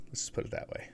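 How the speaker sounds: whispered aside; whispering. Real, not acted. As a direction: whisper it like a secret. Sly aside about his age.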